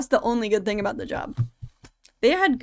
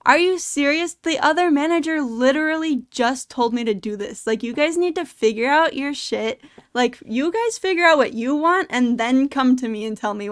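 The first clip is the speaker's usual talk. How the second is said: retold protest, higher and louder at first; exasperated outburst; 3 semitones higher, 4 dB louder than usual. Retelling own outburst at disagreeing managers, exasperated. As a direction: imitate fed-up arguing back, pushing the words.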